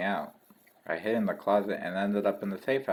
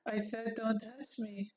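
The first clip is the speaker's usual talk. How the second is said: slower, quieter threat; 14 semitones higher, 8 dB quieter, slower than usual. Acted. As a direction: hold back the anger, slowly. Derek warns again, quieter.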